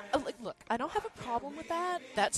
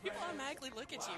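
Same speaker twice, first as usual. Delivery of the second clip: put-on lightly done Valley Girl accent, rising; ditzy Valley Girl accent, played up; 4 semitones higher than usual. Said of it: "Can I do it with, like, a Valley Girl accent?".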